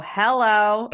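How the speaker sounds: imitating a guarded phone hello; wary of callers. Grandma answering an unknown caller, wary hello. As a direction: answer as if a bill collector is calling. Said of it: "answer like I was a, like a bill collector calling".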